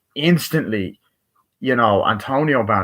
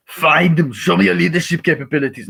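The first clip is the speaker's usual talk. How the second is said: hammed-up leader barking orders, higher and louder; mock commanding shout; 8 semitones higher, 5 dB louder than usual. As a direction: bellow it like a fake general. No, I'm joking.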